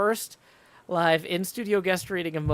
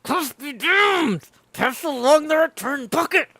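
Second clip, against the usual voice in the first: loud, higher, slow sailor bellow; scoffing shout; 8 semitones higher, 7 dB louder than usual. Acted. Sailor shouting down Archie's cough story, scornful bellow. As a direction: scoff at him and bark the order.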